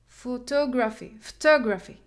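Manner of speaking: "photography" with TOG stressed, third syllable from the end; pho-TOG-ra-phy, punching the TOG; stress on third-last. Shown as a demonstration. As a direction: model "photography" for learners, leaning on TOG. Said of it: "The primary stress on the third".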